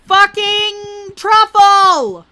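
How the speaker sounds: high, slow furious yell; berserk rage. Acted. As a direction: scream it in a rage. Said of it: "can you stop yelling?".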